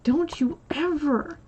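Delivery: warning whisper. Retold or imitated. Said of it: "I was like".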